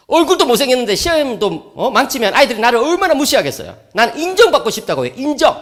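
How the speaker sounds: put-on teen son voice. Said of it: "했더니".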